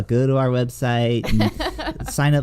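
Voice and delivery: lightly hammed-up shill for the Patreon; salesy pitch voice. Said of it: "I cringe when I'm like".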